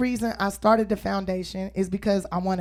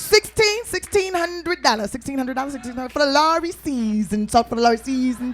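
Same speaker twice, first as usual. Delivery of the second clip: auctioneer call; 2 semitones higher than usual. Acted. Auction calling bids.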